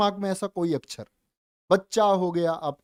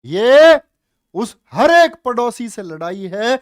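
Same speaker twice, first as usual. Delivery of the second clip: rousing shout; 10 dB louder than usual. Real, not acted. Teacher rousing students about selection.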